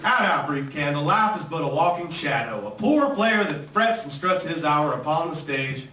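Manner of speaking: put-on Southern accent, theatrical verse recital; Shakespeare declaimed with a Southern twang. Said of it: "this is my impression of William Shakespeare".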